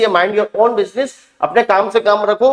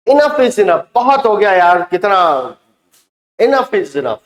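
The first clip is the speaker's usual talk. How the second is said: aggressive; slower than usual. Shown as a demonstration. Teacher demos an aggressive phrase.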